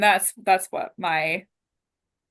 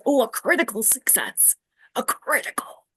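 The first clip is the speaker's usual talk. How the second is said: higher, excited reaction to a lucky roll; delighted surprise; 5 semitones higher than usual. Real, not acted. Player seeing a critical success on the dice, delighted. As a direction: let the happy news lift your pitch.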